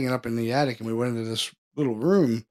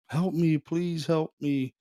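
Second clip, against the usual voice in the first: higher, slow pleading help me; female ghost voice; 4 semitones higher, slower than usual. Retold or imitated. Retelling the ghostly woman's plea, slow and pleading. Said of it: "it's a female, and it says".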